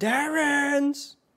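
very high, shrill, yelled scream. Calling out for someone from behind a house: screaming a name. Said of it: "I'm gonna scream".

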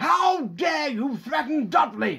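very high-pitched, enraged, furious roaring bellow. An uncle pounds the table with his fist and roars at his nephew, roared. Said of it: "roared Uncle Vernon".

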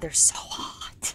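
joking, soft, slow, sultry whisper.

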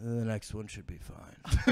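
whispered, quiet, measured and calculating. Retelling a passenger's answer about which exit to take: imitating a quiet, calculated voice. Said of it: "really quiet and, like, calculated".

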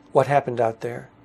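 plain

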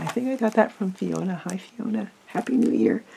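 soft, almost voiceless, fading voice. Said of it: "I'm losing my voice".

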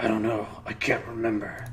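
deep, heavy, really deep character voice. Asked his name by Mort, the scarred hero answers: really deep voice. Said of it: "You've got scars aplenty, though. Looks like some Burks painted you with a knife. All the more reason to give this place the laugh before whoever carved you up comes back to finish the job. Scars? ... I've got a really deep voice, and it's gruff and rough".

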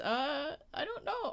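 high, soft mock whimper.

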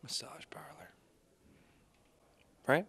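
creepy, hushed, whispered voice. Answering a movie trivia question about a creepy character: creepy tone. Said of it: "Just the way you said it, okay, it was kind of creepy".

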